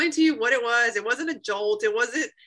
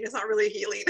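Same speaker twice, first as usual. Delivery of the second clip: laughing through tears. Real, not acted. Emotional testimony, laughing tearfully.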